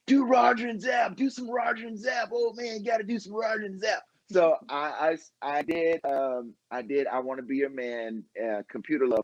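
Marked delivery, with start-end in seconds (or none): 0.1-4.0 mock fan request. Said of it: "people had been commenting".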